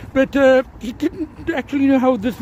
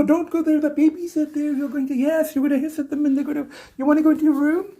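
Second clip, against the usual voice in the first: coaxing pet-owner voice, a little higher; talking to a cat; 4 semitones higher than usual. Real, not acted. Owner talking to his cat about the babies, lightly coaxing. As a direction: gently warn the cat off.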